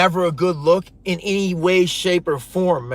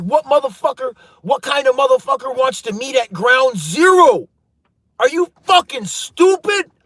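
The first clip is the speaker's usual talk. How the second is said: incredulous, raised voice; ranting at a scammer's crazy meeting spot; exasperated rant; 3 semitones higher than usual. Real, not acted. Vlogger rants at scammers over a risky meeting place, exasperated.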